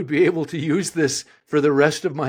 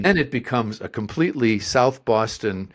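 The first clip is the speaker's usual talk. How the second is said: ordinary talk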